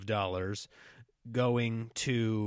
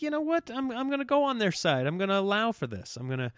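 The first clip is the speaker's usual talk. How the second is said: mock president; 6 semitones higher, 5 dB louder than usual. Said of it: "if they think".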